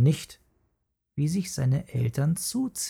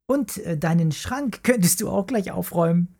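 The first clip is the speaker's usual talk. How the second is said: giggling; 5 semitones higher than usual. Acted. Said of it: "kicherte Mara".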